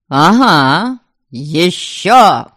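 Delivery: put-on drunken agreement with hiccup; slurred tipsy yes with a hiccup. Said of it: "согласился тот и пьяно икнул".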